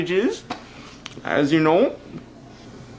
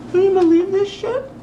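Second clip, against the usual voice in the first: high, loud outraged yell; higher and louder furious outburst; outraged shout; 4 dB louder than usual. Acted. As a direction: blow up at the whole situation. Furious about no cable.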